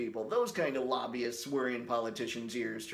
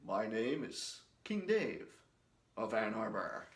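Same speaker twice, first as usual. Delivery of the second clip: grand claim; 2 semitones lower, 3 dB quieter than usual. Pretend. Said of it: "make ridiculous claims such as".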